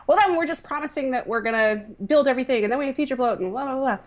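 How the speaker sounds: lightly voiced nervous startup founder; startup pitch. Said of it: "my cartoon boardroom version of a startup founder's voice".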